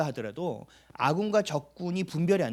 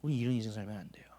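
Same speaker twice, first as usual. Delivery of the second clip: hushed whispered warning; a sudden secret whisper; 8 semitones lower, 9 dB quieter, faster than usual. Real, not acted. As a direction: lean in and whisper it to the congregation. Preacher drops to a warning.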